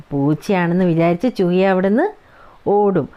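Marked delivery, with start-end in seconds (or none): none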